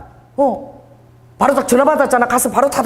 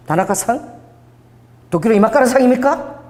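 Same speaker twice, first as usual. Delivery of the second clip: guessing names; 4 semitones higher than usual. Retold or imitated. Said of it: "내가 아는 이름을 다 대는 거야".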